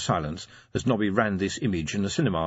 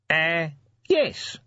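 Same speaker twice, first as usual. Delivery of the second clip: tentative; 7 semitones higher than usual. A narrator's reading. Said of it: "he ventured".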